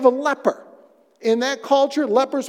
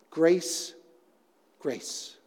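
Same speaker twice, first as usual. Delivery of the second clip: hushed repetition; 5 semitones lower, 7 dB quieter than usual. Real, not acted. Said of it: "grace literally in exchange for grace".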